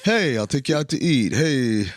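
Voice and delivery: hammed-up "Hey" hustle; Rodney Dangerfield. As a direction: pitch it like an old stand-up comic. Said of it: "Why are you becoming Rodney Dangerfield?".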